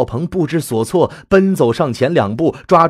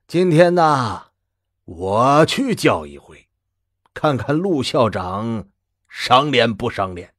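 put-on old man, slow; slower than usual. Old father decides to go himself.

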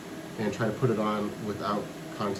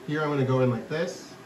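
muffled inside fabric enclosure; speaking into sound box; face inside box hood; 4 semitones higher than usual. Real, not acted. Seen 0: Face pushed into blue fabric opening of plastic box while speaking.

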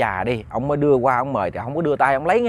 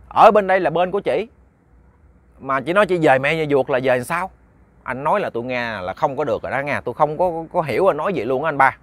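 raised pitch, exasperated complaint; mildly annoyed; 2 semitones higher than usual. Acted. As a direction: protest in growing bafflement, a touch irritated. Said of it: "ông hơi bực mình". (giọng hơi bực mình)

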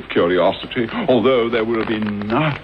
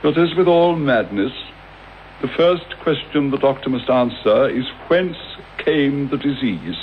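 gloating mock lecture; 5 semitones higher than usual. Watson gloating, mock clinical.

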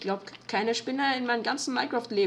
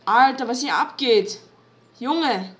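shaken exclaiming; 2 semitones higher, 9 dB louder, slower than usual. Real, not acted. Still shaken after scare.

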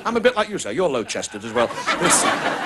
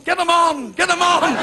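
higher, louder hammed-up shriek; mock screaming ladies; 9 semitones higher, 5 dB louder than usual. Ladies in the audience screaming at the stripper, mock shriek. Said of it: "ladies in the audience would be screaming".

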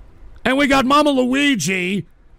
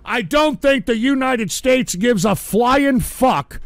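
slow, weighted, raised delivery; emphatic repeat; slower than usual. Real, not acted. Streamer repeating his point to chat, slow and emphatic. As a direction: hammer each word home. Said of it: "I'm gonna repeat that one mo again".

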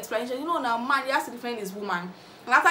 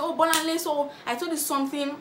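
mildly raised, hurt accusation; retold shouting; 3 semitones higher than usual. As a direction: replay his angry outburst, lightly voiced. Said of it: "he was like shouting".

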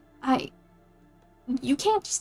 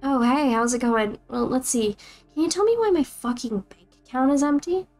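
sarcastic greeting turning to a furious demand; fake-friendly, then snap; mock-cheery then angry; 2 semitones higher than usual. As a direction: the speaker demanding her money from the operator. The speaker confronts operator.

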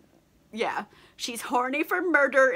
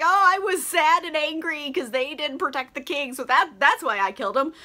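feigned innocent excuse; 4 semitones higher than usual. Retold or imitated. Macbeth gives a false excuse.

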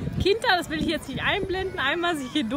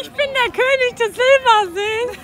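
slow, loud, higher royal proclamation; roaring tyrant king; 8 semitones higher, 9 dB louder, slower than usual. Shown as a demonstration. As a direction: bellow it like a triumphant king. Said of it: "ganz laut was rufen".

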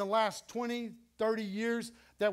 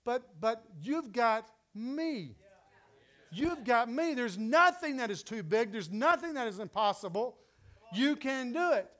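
reassuring God. Retold or imitated. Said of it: "God is up there going".

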